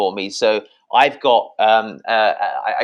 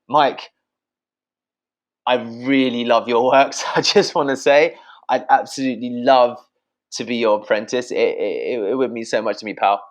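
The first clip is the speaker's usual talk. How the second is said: warm, lively tune with a laugh in it; playful and sincere; melodic enthusiastic ask. Shown as a demonstration. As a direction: sell it with musical energy. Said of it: "I said exactly the same fucking thing".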